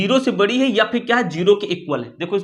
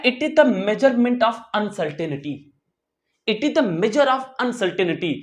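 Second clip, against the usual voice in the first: very slow, each word spaced out; slow dictation; much slower than usual. Shown as a demonstration. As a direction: dictate it slowly for students to copy. Teacher dictates the definition.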